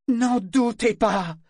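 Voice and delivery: rugi lentement, fort et aigu; rugissement. Acted. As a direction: rugit la menace. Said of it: "rugit-elle soudain".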